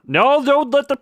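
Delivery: high, loud panicked cry; alarmed shout. Real, not acted. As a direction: yelp in alarm. Game object about to drop.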